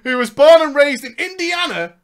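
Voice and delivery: projected read-aloud storytelling; narrating a gaming memoir; story narration. Acted. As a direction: read the tale out to listeners. Reads story aloud amid own chat.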